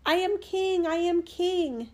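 very high, drawn-out little bird cry; fine piercing voice. A narrator's reading. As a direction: pipe it up high like a tiny boastful bird. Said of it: "crying with his fine, piercing voice".

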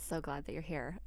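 soft welcoming voice; gentle grief counselor. Pretend. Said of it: "let's pretend this is my first walk".

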